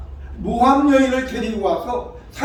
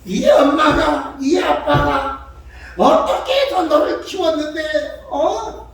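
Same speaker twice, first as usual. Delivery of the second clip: tearful parental lament; 6 semitones higher, 3 dB louder than usual. Acted. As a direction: plead with the child in hurt reproach. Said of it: "슬퍼가지고 울면서 자식에게 하소연하죠".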